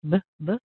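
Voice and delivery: "B, b" as short "buh, buh"; isolated "b" sounds, short and separate; B sound demo. Shown as a demonstration. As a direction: lips together for two quick "b" bursts. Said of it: "using a B where you're putting your lips together".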